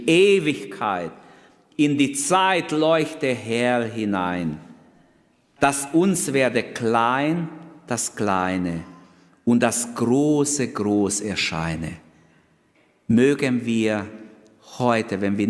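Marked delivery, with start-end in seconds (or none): 0.1-11.9 slow, solemn recitation; recited poem. Acted. The preacher reciting Marie Schmalenbach's hymn to the church, slow and solemn. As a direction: draw out each line of the verse. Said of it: "hat es geschrieben".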